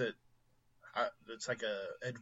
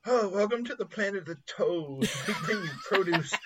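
high, laughing, put-on voice, fast at the end; odd alien greeting; 6 semitones higher than usual. Retelling the Godzilla scene in a high, giggling voice. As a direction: giggle through a weird greeting. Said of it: "he's like".

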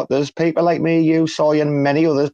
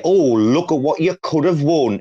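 Bullseye host quote; 5 semitones higher than usual. Retold or imitated. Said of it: "they used to say".

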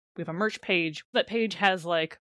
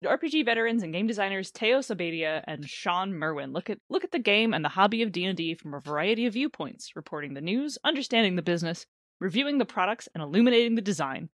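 ad read. Real, not acted. Reads sponsor's show description.

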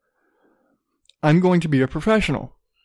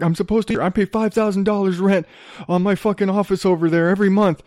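mildly heated, higher-pitched griping; mock indignant protest; retold snippy complaint; 4 semitones higher than usual. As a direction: imitate an entitled man getting snippy. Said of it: "he starts getting all fucking snippy with me".

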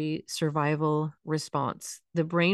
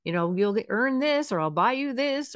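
higher-pitched, mock bargaining with a child; coaxing promises; 6 semitones higher than usual. Parent promising a kid rewards to get moving, mock coaxing. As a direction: imitate a parent dangling rewards. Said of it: "promise them things".

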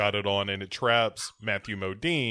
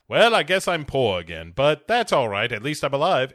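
cheerful hero voice; 4 semitones higher, 5 dB louder than usual. Retold or imitated. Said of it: "Matthew Modine quote".

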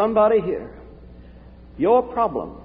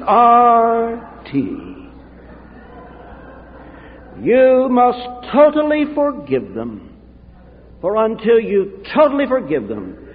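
put-on louder, slow, emphatic Romanian-accented charge; 3 semitones higher, 4 dB louder, slower than usual. Romanian friend insisting he forgive, in a forceful accent. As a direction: imitate a Romanian friend, hammering each word slowly. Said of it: "said in his Romanian accent".

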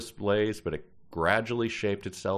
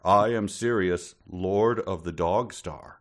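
grand star voice; slower than usual. Acted. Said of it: "it announces itself as, uh, Sirius the Dog Star".

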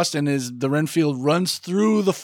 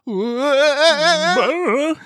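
high warbling cartoon wail; cartoon cry; 10 semitones higher, 4 dB louder than usual. Riffing on Shaggy and Scooby-Doo, high cartoon wail. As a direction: imitate a startled cartoon howl.

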